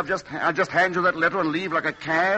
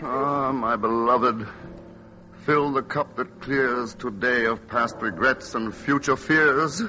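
delirious recitation; 3 semitones lower, slower than usual. Acted. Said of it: "he is delirious".

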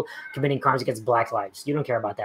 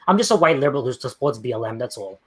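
mock dumb apology; 5 semitones lower than usual. Answering a viewer's math jab with mock helpless sarcasm. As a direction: play dumb, sarcastic and sheepish. Mock liberal self-parody.

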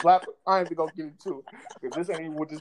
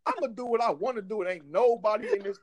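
yelling; 3 semitones higher than usual. Real, not acted. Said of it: "Why you yelling?".

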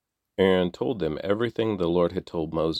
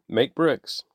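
higher, barked quote of the drivers; mock command; 7 semitones higher, 3 dB louder than usual. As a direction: imitate the overseers' order. Foremen quote slave drivers' demand.

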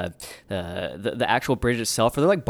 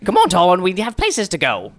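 calling companion; 5 semitones higher, 3 dB louder than usual. Acted. Character calling companion to leave.

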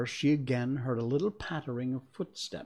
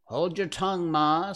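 higher, sharp retort; snappish; 7 semitones higher, 4 dB louder than usual. A narrator's reading. Young crab snaps at her mother, sharp and higher. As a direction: snap back at Ma with impatience. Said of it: "a little snappishly".

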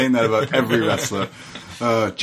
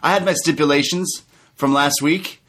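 higher mocking heel voice; lightly voiced cocky wrestler; imitating MJF; 9 semitones higher than usual. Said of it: "M J F says".

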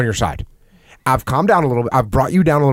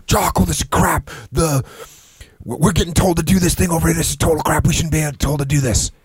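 higher, heated gripe at the boss; mock angry complaint; 4 semitones higher than usual. Subordinate complaining to his boss about orders, heated. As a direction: vent like a fed-up subordinate.

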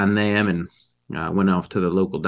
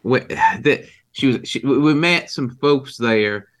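flustered, higher-pitched stammer; nervous; 5 semitones higher, 3 dB louder than usual. Acted. Witness questioned about visiting Richard's house, nervous and stammering. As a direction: stumble over false starts, pitched up. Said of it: "you seem very nervous".

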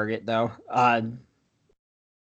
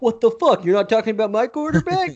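indignant Jets fan; 9 semitones higher, 3 dB louder than usual. Retold or imitated. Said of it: "Jets fans to be like".

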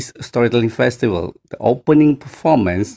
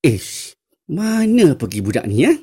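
annoyed grumble; 5 semitones higher than usual. Retold or imitated. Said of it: "if I tell in Bahasa Melayu".

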